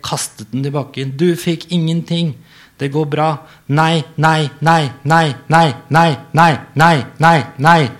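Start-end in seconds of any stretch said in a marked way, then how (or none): 1.2-3.3 higher, louder anxious outburst; panicking over the lost drink; upset. Acted. Iver distressed, apologizing. 3.7-7.9 building from loud to shouting, higher; escalating no. Acted. Iver escalating distress.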